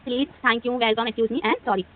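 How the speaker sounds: slow, word-by-word recap; teacher slowly recapping the magic words. Shown as a demonstration. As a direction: list the words slowly for students. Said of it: "हमने सारे word सीख लिए".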